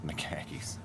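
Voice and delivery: put-on Boston accent, dropped r's. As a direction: drop the r like a Bostonian. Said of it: "that thick Boston accent".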